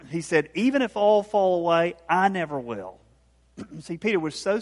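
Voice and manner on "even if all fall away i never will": defiant rebuttal. Retold or imitated. Peter contradicts Jesus's warning, mildly defiant. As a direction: push back firmly, as Peter retold. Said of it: "Peter immediately contradicted Jesus and defended himself".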